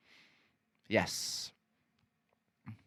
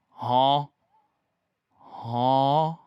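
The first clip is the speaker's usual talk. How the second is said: short, loud questioning "huh"; blurted, puzzled meme-cat "huh?"; confused cat meme; 5 dB louder than usual. Retold or imitated. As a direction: imitate a meowing cat asking a question. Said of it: "like it's asking a question".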